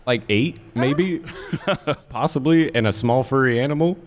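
high, tentative duck voice; reply as a duck, pitched well up; answering duck. Acted. Ducks answering from the woods, high-pitched voice. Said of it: "The ducks from the woods hear you, and they say".

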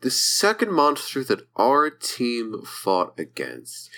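slow character voice. Acted. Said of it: "trying to figure out my character voice".

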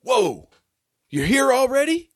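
high, startled whoa; a startled host meeting the guest at the door; surprised greeting. Acted. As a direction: stumble back, caught off guard. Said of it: "he's like".

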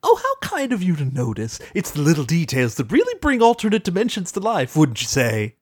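smug. Retold or imitated. Discord smug aside.

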